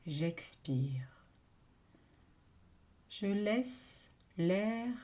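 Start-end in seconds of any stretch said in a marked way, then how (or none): 0.1-1.3 low, whispered exhale cue; hushed, sinking cue to breathe out; breathing-out cue. Real, not acted. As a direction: let the words fall away with the breath. Second out-breath cue, voice drops.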